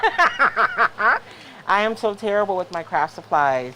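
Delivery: loud, laughing self-mockery. Real, not acted. Host admitting she's terrible with supplies, laughing.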